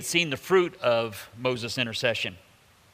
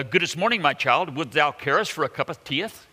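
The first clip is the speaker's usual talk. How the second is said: raised-pitch, louder mock olde English; mock King James God; 3 semitones higher, 4 dB louder than usual. Preacher mocking God speaking King James, in a raised, hammy olde-English voice. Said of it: "do you think he said something like".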